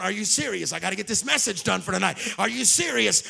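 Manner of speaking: rising exasperation at the alarm; exasperated. Retold or imitated. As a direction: build from annoyed to fed up. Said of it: "I'm going".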